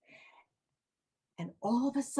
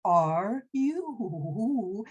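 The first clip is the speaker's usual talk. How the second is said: hooted who, then gently asked; owl voice; much slower than usual. Acted. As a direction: hoot the who. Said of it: "you know how owls talk".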